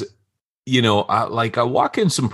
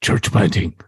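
badly imitated sensei, in short phrases; lightly voiced film sensei finishing a maxim; Mister Miyagi; 2 semitones lower than usual. Parody of Miyagi's advice about church planting, bad sensei impression. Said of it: "does my voice sound like Mister Miyagi's".

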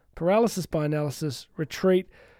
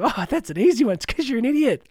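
higher, louder sneering voice of your own brain; the brain mocking its owner, higher and louder sneering; mocking inner critic; 6 semitones higher, 4 dB louder than usual. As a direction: taunt yourself like a smug bully. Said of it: "your brain goes".

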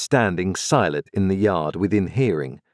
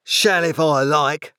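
slow, raised sulky retort; surly growl; 7 semitones higher, slower than usual. A narrator's reading. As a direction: growl it defiantly, drawing the words out. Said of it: "growled Orlick".

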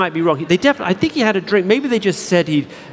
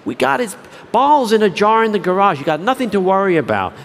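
lightly voiced, carefree owner, a touch higher; breezy chimp owner; 3 semitones higher than usual. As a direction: toss it off like it's no big deal.

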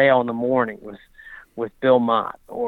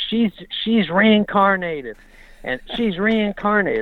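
imitating trainer; 8 semitones higher, 3 dB louder, slower than usual. Retelling trainer's repeated claim.

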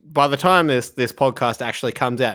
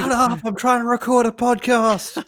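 mock annoyed parent; 10 semitones higher than usual. Mock yelling at kid.

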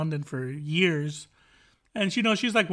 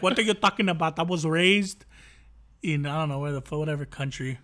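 lightly imitated Spanish accent; mock Spanish accent. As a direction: put on a slight Spanish accent, indignant. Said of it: "in a Spanish accent".

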